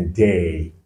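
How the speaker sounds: "day" slowly, with the vowel like the letter name A; A sound from AY. Shown as a demonstration. Teacher shows what A plus Y becomes, slow ay in "day". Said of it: "ça donne le son A".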